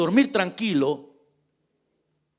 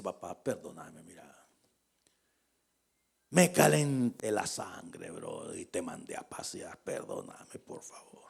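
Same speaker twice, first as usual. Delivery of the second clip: soft, lower, sinking to a whisper; pleading apology; 11 semitones lower, 7 dB quieter than usual. Retold or imitated. A repentant son asks his father for pardon, softly. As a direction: beg forgiveness, fading to a hush.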